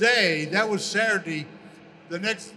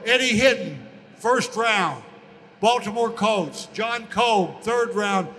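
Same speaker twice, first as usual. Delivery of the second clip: louder, punchy sports-desk read of the draft picks; TV sportscaster; 3 dB louder than usual. Retold or imitated. Local TV sports anchor reading draft picks to viewers, a louder announcer read. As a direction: announce each pick like the evening sports news.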